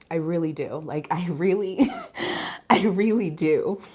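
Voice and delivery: real choked-up sincerity; getting teary while insisting you mean it; tearful. Real, not acted. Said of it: "Y'all got me out here boohoo crying".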